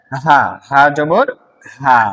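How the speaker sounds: হা জবর with a light, open breathy h, said slowly; easy ha sound. Shown as a demonstration. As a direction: let হা out easily and slowly. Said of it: "সহজ আওয়াজের হা".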